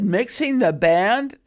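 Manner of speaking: slow, rising disbelief; drawn-out amazed question; mom amazed. Retold or imitated. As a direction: mom realizing her daughter mixed the band. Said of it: "And she said".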